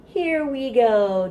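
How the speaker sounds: sing-song rhyme, rising on up and falling to a whisper on down; playful action rhyme. Shown as a demonstration. Librarian demonstrating a baby bounce rhyme, sing-song. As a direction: act out the directions for a baby. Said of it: "it goes like this".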